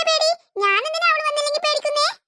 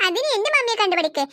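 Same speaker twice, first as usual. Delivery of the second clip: said through a laugh; 3 semitones lower than usual. Acted. Girl joking with her friend about her mummy, laughing. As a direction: giggle as you tease.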